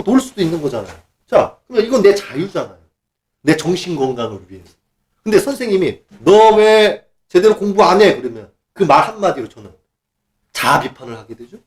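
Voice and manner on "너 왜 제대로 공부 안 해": mildly scolding teacher, slowly drawn out; acted slow telling-off; teacher's scolding. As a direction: draw out a teacher's reprimand. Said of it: "날 혼냈어".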